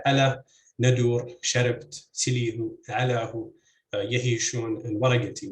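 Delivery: "ala, nadur, sharabt, silihu, alahu, yahishun, waragati" each stressed on the first syllable; front-stressed "ala", "nadur", "waragati". Shown as a demonstration. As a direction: list each example, hitting the opening syllable of "ala", "nadur", "sharabt" and the rest. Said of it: "with all stress on the, on the first".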